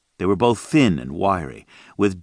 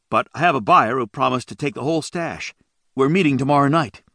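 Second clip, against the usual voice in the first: smooth lie; 6 semitones higher than usual. A narrator's reading. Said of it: "He smoothly lied".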